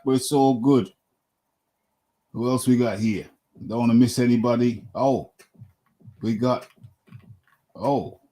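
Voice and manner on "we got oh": normal talking voice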